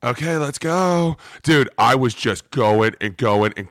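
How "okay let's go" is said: high, slow, unsure reply; meek agreement. Retold or imitated. Lifter answering a screaming spotter, meek agreement. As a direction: go along with it in a small high voice.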